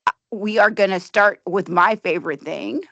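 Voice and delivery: dry sarcastic tone. Real, not acted. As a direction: say it with fake enthusiasm. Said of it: "I'm being sarcastic".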